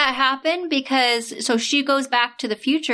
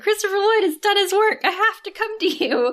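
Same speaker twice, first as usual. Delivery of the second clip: mock heroic Ben; 9 semitones higher than usual. Ben racing to the station, excited higher voice. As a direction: announce it like a hero. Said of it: "He's like".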